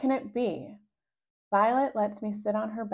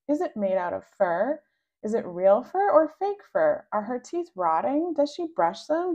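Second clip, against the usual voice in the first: eager questions; 4 semitones higher, 3 dB louder than usual. Acted. Rascal eagerly quizzing siblings.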